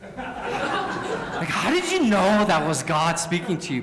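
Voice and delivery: laughing question. Real, not acted. Asking playfully amid laughter.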